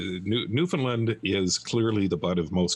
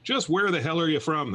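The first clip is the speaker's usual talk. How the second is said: frustrated yell; 9 semitones higher than usual. Acted. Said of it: "yelled at him".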